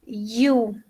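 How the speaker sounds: letter U said "you", with a consonant-like Y onset. Shown as a demonstration. Teacher showing students the sound of U, Y onset. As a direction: begin "you" on a clear Y glide. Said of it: "La U se pronuncia".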